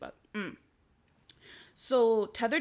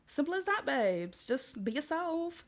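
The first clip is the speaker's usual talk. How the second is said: mock advice; 6 semitones higher than usual.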